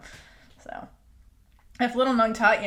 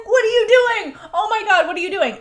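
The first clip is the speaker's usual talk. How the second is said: high, louder mock panic; retold freak-out; 9 semitones higher, 7 dB louder than usual. Retelling a flustered role model after a surprise kiss, mock freak-out. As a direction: freak out in playful imitation, pitched well up. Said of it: "she freaks the fuck out".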